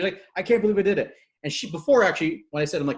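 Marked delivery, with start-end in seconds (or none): 0.3-1.1 imitated amazement, higher and louder; shaken disbelief. Shaking client just after her recording, mild retold disbelief. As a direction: retell someone stunned by their own feat. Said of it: "She's, like, shaking".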